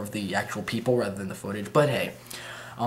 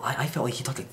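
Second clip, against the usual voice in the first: whispering; 2 semitones higher, 3 dB quieter, faster than usual. Real, not acted. Aside about Egoraptor talking little.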